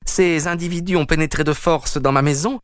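rally the officers against the intruders, outraged; outraged householder calling for help; indignant appeal. Acted. Peters calls police against intruders.

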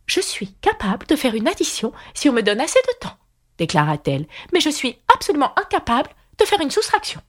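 White Queen voice. A narrator's reading. White Queen boasting to Alice, in a high prim voice.

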